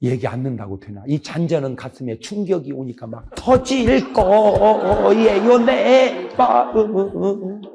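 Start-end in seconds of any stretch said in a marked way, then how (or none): 1.1-7.6 drawn-out, higher, heart about to burst; slow rising thrill; slow swelling excitement. Acted. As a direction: stretch it out like joy welling up.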